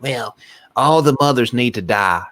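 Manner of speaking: lightly put-on Southern accent; imitated Southern accent. Retelling the movie mother's line, light Southern accent. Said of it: "more of a German accent than it is a Southern accent".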